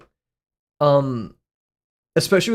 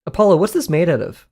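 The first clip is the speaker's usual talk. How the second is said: lightly mimicked trainer, louder and higher; imitated bird trainer; 5 semitones higher, 5 dB louder than usual. Streamer quoting a parrot's trainer, mock quizzing voice. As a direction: quiz a pet parrot, imitating its owner. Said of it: "Apollo the, the African Gray".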